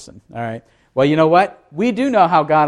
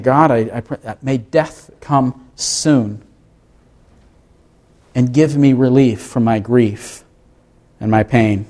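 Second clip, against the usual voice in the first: weary prayer; 3 semitones lower than usual. Acted. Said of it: "he even cries out to God".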